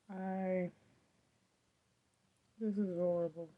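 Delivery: talking through throat pain; sore throat voice. Real, not acted. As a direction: speak carefully around a painful throat. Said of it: "Talking after a while starts to hurt".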